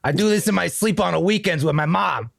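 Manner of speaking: lightly put-on Boston tough guy; Boston accent. Cocky boatman to the army crossing the river, Boston accent. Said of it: "I can't do the accent".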